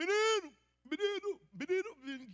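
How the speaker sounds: very loud, high-pitched yelling at the top of the lungs. Retelling a traffic scene, calling after the boy, retelling own shouting. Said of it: "gritando menino".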